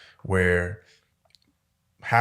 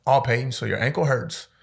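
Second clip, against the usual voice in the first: sarcastic coach; 3 semitones higher than usual. Retold or imitated. Coach mocking injured player.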